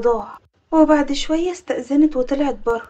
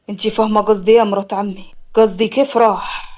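low man's voice, quick then slowing; deliberate, probing final question; insistent nephew; 5 semitones lower than usual. Acted. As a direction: press the question, pitched down. Nephew presses widow for truth.

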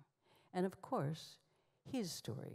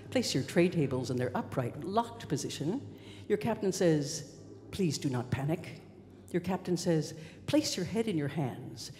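loud cabin announcement, building in pitch and urgency; intercom announcement; 8 dB louder than usual. Acted. Flight attendant relays crash-landing orders, loud intercom voice turning frantic. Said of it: "A voice came over the intercom".

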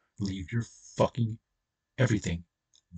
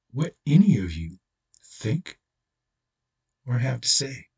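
harsh defiance; 4 semitones higher, slower than usual. Real, not acted. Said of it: "I may sound harsh. Guess what? I am".

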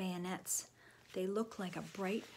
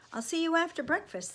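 high, raised calling voice; calling goodbye; 10 semitones higher, 7 dB louder, faster than usual. A narrator's reading. Sam parting from John as they move off, calling out. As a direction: call it across to a friend. Boy calls goodbye to friend.

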